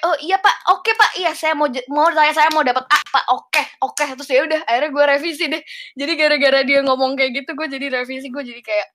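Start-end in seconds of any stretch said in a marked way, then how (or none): 0.1-4.0 higher, perked-up yes-sir replies; eager excitement. Retold or imitated. Student suddenly fired up by lecturer's promise, eager and higher. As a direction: bounce back keen to earn that A. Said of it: "Terus gue jadinya kayak semangat gitu ya".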